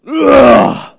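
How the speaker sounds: a short, guttural groan of anger; angry groan. Acted. Jesus at Lazarus's tomb, angry groan. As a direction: groan out in frustration. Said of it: "let out a groan".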